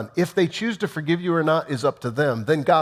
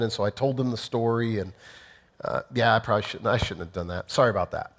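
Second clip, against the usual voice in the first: a preacher mocking a weak apology to a gossip victim, half-hearted; mumbled excuse-making apology; 4 semitones lower than usual. Shown as a demonstration. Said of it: "Imagine if you just simply say".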